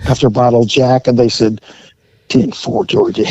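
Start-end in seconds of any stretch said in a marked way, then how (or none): 2.3-3.3 high, thin mock dispatcher voice; squeaky mock reply over the radio. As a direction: chirp it back like a radio operator.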